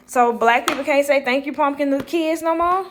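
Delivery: mock outrage; indignant inner thought. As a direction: protest it loudly, incredulous.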